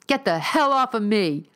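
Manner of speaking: high, loud scream, hitting hell. Acted. Neil slapping at the hands grabbing him, screaming. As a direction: shove them off with your voice. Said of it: "he screamed".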